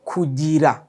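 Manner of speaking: Kugira said clearly as koo-GEE-rah, falling at the end; model pronunciation. Shown as a demonstration. Teacher models Kugira for learners, clear and falling. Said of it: "Repeat after me".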